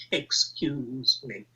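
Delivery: mock posh voice. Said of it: "Your precious monuments".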